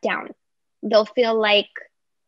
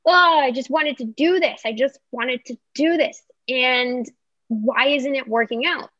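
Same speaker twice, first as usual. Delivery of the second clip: frustrated whine; 4 semitones higher than usual. Retold or imitated. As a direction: whine it like someone fed up that nothing works. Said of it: "it's frustration".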